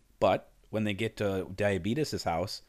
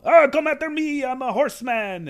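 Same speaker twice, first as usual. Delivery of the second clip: high mocking taunt; 9 dB louder than usual. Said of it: "He's real".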